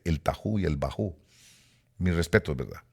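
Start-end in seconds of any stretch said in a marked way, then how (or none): 0.0-1.2 "tahu" and "bajú" with an a, stressed at the end; mispronounced Hebrew terms. Retold or imitated. Preacher reports what people say, "tahu" and "bajú" stressed at the end. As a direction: say "tahu" and "bajú" as tah-HOO, bah-HOO. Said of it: "He oído gente que le dice".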